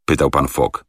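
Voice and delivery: usual speaking voice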